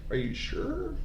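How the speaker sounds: high, soft, incredulous squeak; squeaky doubtful voice. Retold or imitated. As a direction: ask it in a tiny disbelieving voice. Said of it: "and I was like".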